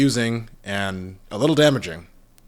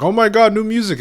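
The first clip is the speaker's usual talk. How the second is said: high, loud gasp of excitement; mock fan shriek of joy; excited fan squeal; 11 semitones higher, 8 dB louder than usual. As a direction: squeal it like a thrilled fan hearing new music. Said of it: "we're all gonna be like".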